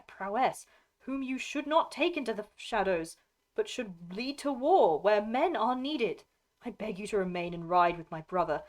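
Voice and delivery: lightly voiced Eowyn, pleading. Lady begging a lord to remain, lightly voiced plea. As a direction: lightly play a noblewoman's earnest appeal.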